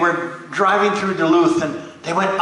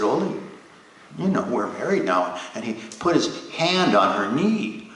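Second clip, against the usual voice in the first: soft coaxing; 3 semitones lower, 5 dB quieter than usual. Acted. Lena coaxing Ole again.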